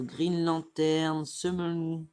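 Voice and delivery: French speaker attempting an English accent. Real, not acted. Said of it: "Putain, mon accent anglais". (accent anglais)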